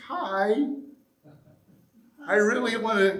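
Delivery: bright, eager hello; friendly greeting. Shown as a demonstration. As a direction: greet them openly. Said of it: "fingers out like this".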